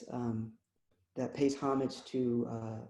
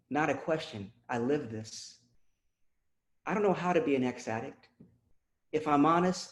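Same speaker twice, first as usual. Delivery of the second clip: poem recital. Acted. Poet reciting a confessional poem to the audience, measured spoken word. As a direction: let each line land with weight.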